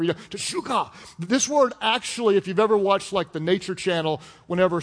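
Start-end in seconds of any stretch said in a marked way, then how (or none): 0.0-0.9 infomercial voice. Pretend. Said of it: "like a commercial".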